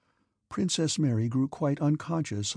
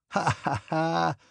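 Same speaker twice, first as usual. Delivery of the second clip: a short, hammed-up ha ha ha; old man's mocking laugh; 4 semitones higher, slower than usual. Old prince mocks his guest's son with a mock laugh. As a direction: laugh at the young man's answer, only half amused. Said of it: "laughed Prince Bolkonsky".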